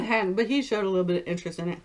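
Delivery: chewing between words; talking while eating; mouth full of fries. Real, not acted. Seen 2: fry held at mouth, biting and chewing while talking.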